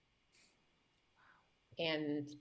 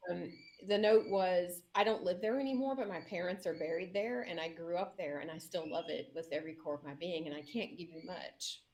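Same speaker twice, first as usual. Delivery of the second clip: tearing up. Real, not acted. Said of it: "I'm gonna tear up just saying this".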